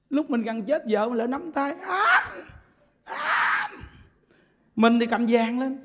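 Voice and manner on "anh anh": high, soft pleading call; pleading wife. Acted. Wife voiced at deathbed.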